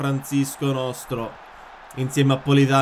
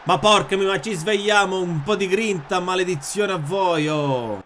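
frustrated; 5 semitones higher, 3 dB louder than usual. Real, not acted. Scolding own team.

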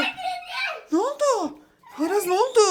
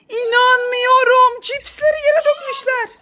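slow, gasping mock shock; drawn-out stunned surprise; shocked disbelief; 5 semitones higher, slower than usual. Finds spilled chips, gasps. (yavaş, nefes kesilmiş sahte şaşkınlık)

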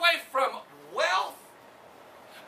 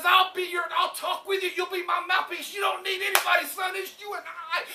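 booming God; 6 semitones higher than usual. Acted. Preacher voicing God promising to speak for Moses. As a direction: declare it with fatherly power.

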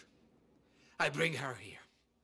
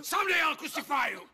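laughing threat; 11 semitones higher, 9 dB louder than usual. Acted. Husband threatening wife, laughing.

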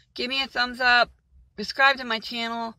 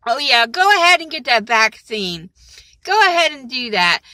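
sarcastic; 6 dB louder than usual. Acted. Sarcastic about the vaccine.

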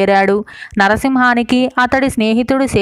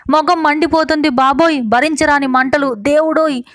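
lightly acted wail, pitched higher; 4 semitones higher than usual. Wife crying out that her face burns, a mild wail. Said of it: "గొల్లుమంటూ శోకాలు ప్రారంభించింది".

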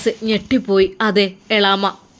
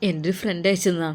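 tearful; 4 semitones lower, 5 dB quieter than usual. Acted. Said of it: "എന്താടാ ഇങ്ങനെ കരയുന്നത്?".

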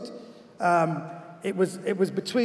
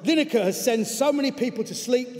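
slightly cockney letter reading, emphatic; Wally Downs, cockney coach; 4 semitones higher than usual. Acted. Football coach denouncing a TV presenter by letter, in a cockney accent. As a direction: read it out as an indignant cockney. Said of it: "I'm gonna do it in his voice".

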